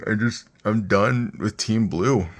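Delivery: weary. Real, not acted. Fed up with Intel CPUs.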